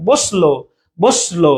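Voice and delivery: বসলো with no vowel between s and lo; correct pronunciation demo. Shown as a demonstration. Teacher showing learners the real pronunciation, correct pronunciation demo. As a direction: run the s straight into lo in বসলো. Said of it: "এই উচ্চারণটা এমন হয়".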